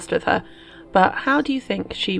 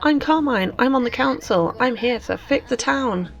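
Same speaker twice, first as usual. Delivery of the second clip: lightly voiced, higher, boastful; a hint of a smug politician showing off; voicing Carmine; 5 semitones higher than usual. Carmine introducing herself to Queenie, mildly boastful and higher. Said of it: "Carmine's like".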